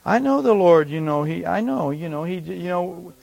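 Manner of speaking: hesitant, halting mock timidity. Preacher imitating timid Christians praying, timidly. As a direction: fumble along as an unsure believer.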